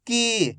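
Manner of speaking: "की" with a long, held ee; drawn-out long vowel. Shown as a demonstration. Teacher modelling for learners to repeat, "की" drawn out. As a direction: stretch the vowel in "की". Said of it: "खींच खींच के पढ़ेंगे".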